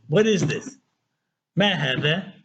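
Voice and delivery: a mild puzzled what is this; puzzled question. Shown as a demonstration. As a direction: ask it like you have no idea. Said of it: "it's implying you have no idea".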